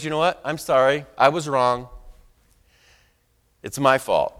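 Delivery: calm, sincere apology. Retold or imitated. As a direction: defuse her gently. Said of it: "Very calmly".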